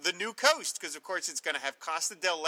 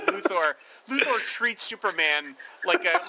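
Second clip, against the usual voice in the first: ordinary talk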